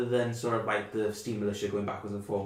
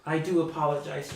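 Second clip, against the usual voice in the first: put-on high, kindly old mother's voice; a hint of a chatty elderly mother; old woman; 7 semitones higher, 6 dB louder than usual. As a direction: fuss over the guests like a doting granny.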